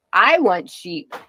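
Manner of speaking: slow. Real, not acted. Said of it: "hardcore sheep farming problems".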